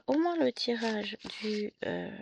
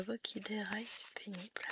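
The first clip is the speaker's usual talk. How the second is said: chuchoté; 8 dB quieter than usual. Real, not acted. Voix enrouée, parle bas.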